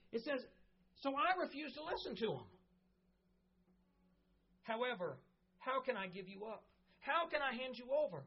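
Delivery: earnest preaching to the congregation; sermon delivery. Real, not acted. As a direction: preach it with conviction.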